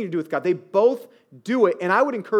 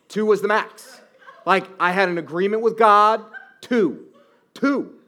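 laughing; 4 semitones higher, 6 dB louder than usual. Real, not acted. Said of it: "laughing at own joke".

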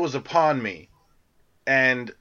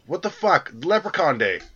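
hammed-up disbelief; mock outrage; 4 semitones higher than usual. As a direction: act baffled by the holiday name. Mock outrage at holiday name.

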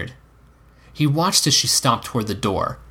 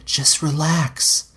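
slow, drawn-out and higher-pitched; coaxing; 6 semitones higher, much slower than usual. A narrator's reading. Woman coaxing her hesitant lover, slow and soothing. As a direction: stretch it out soothingly.

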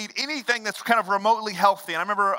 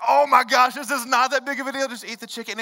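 exasperated parent; 5 semitones higher, 4 dB louder than usual. Retold or imitated. Frustrated parent at dinner.

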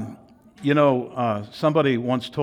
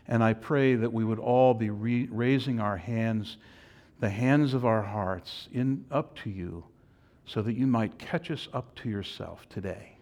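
prayer. Acted. Leads the congregation in prayer.

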